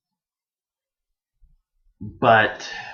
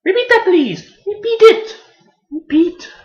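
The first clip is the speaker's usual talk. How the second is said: loud, high-pitched mock yelling; frantic demand; 10 dB louder than usual. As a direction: demand it in a comic panic. Acted demand in reaction to show.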